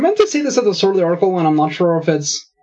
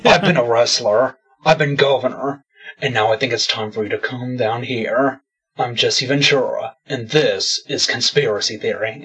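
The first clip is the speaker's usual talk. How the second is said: lower, gruff-ish bad Jesse Ventura; Jesse Ventura impression; 5 semitones lower than usual. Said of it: "I can't do a good Jesse Ventura".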